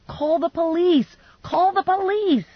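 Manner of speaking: high, slow shouts; shouting. A narrator's reading. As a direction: shout it while wrestling. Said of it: "I was shouting".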